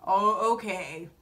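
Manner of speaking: drawn-out, unconvinced mock agreement; skeptical reaction. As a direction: imitate relatives trading doubtful looks. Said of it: "looking at each other like".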